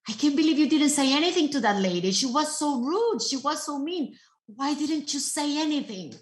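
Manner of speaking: the disciple blurts out his outrage; indignant disciple. Retold or imitated. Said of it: "And he said".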